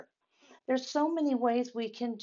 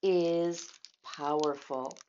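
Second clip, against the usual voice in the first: gentle mother's voice; 3 semitones lower, 4 dB louder, slower than usual. Acted. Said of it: "said Mama".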